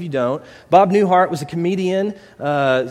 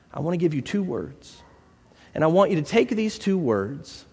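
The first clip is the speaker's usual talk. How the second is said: reassuring therapist. Acted. Therapist reassuring an anxious client.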